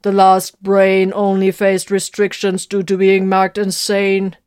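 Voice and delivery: loud, slow, pedantic correction; correcting. Acted. Guardian Spirit corrects Vox, loud and pedantic. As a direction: set them straight, precisely. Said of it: "the Guardian Spirit corrected".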